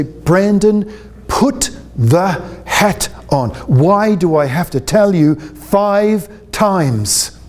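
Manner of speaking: slow, fed-up nagging mother; a slow, weary telling-off from a mother; exasperated mother. Retold or imitated. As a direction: drag it out like a tired mum at the end of her rope. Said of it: "speaking like your mother".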